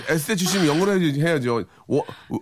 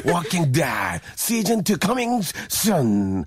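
movie trailer voice; much slower than usual. Acted. Trailer tagline again.

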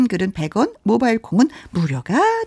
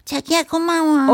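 put-on cutesy girlfriend; 7 semitones higher, slower than usual. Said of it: "acted couple skit".

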